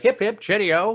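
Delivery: put-on jaunty stock British accent. Showing the one dialect he can do, mock British. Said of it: "That's the only one I do".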